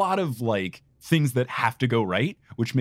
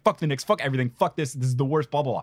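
retold anger; 3 semitones higher, faster than usual. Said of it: "super pissed".

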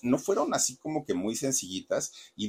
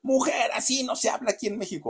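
much higher, scolding shout at the actress; imitated scolding yell; 13 semitones higher than usual. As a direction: bark it like a furious director correcting her. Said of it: "le ponía unas gritonizas".

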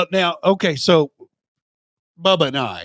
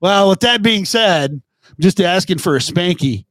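corporate jargon parody. Pretend. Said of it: "Quote, "Circle back," unquote".

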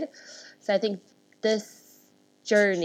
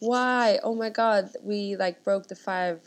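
excited disbelief; 3 semitones higher, 5 dB louder than usual. Retold or imitated. Founder telling the host about outlasting London's five-year rule, excited. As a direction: gush like you can't believe you beat the odds. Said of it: "And we're like".

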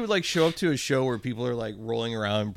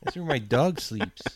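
lightly voiced laid-back punk; a hint of a mellow stoner; stoner punk guy; 2 semitones higher than usual. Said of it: "My impression of a guy".

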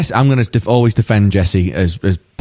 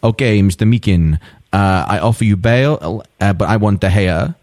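put-on Spanish accent. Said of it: "That's my Spanish accent".

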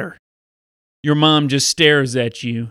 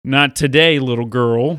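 stern man; 4 semitones lower than usual. Acted. Stern follower turns child away.

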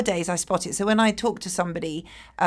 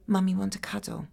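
put-on small child offering. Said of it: "take a deep breath and say".

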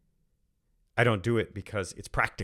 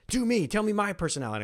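much higher, eager and pushy; eager request; 11 semitones higher, 4 dB louder than usual. Retold or imitated. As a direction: beg like a keen fan at the front of the queue. Eager chiefs lined up asking.

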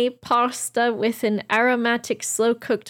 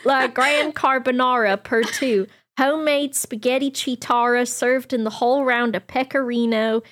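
mock posh menu read. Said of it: "If I read it like this".

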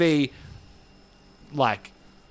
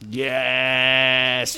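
excited shout. Real, not acted. Excited outburst wrapping up.

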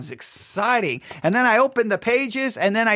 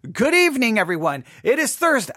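retold broadcast opening; 3 semitones higher than usual. Host retelling another try at his intro, announcer style. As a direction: redo the on-air welcome, announcer style. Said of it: "start over".

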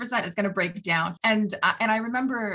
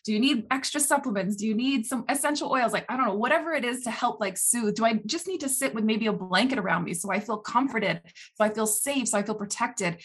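gentle parent asking herself what she needs; nurturing self-talk. Retold or imitated. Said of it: "be your own parent".

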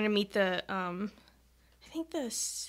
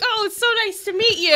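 excited greeting; 11 semitones higher, 4 dB louder than usual. Retold or imitated. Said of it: "I was like".

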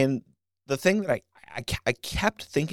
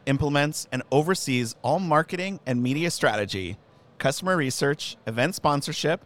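formal announcer intro. Acted. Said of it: "announce me that way every time I come".

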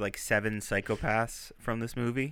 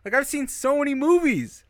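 retold disbelief; 8 semitones higher than usual. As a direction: start hushed, then squeak up in disbelief. Retelling being fooled by twist.

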